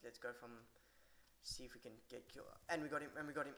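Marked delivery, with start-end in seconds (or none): 2.7-3.5 excited. Real, not acted. Cheering a kill in the match.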